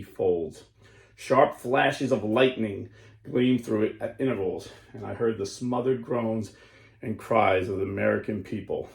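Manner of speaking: solemn, measured story narration; grave storyteller voice; dramatic reading. Acted. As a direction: read it like an awed vision. Reads a vision aloud.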